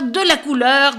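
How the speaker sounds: put-on lively read-aloud for children, voices the birds; story narration. A narrator's reading. Critic reading the book to young listeners, animated storytelling. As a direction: tell the tale with animated expression.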